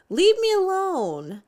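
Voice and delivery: a mock wail of misery; yell. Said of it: "I yell".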